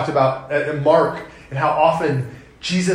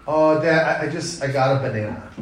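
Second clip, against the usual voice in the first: put-on flustered child; 2 semitones lower than usual. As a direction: stammer it out like a caught kid. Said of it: "a child will be hiding something".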